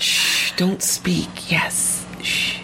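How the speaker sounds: playful whispered shushing; mock hushing whisper. Runner silencing surprised friends, mock secretive whisper.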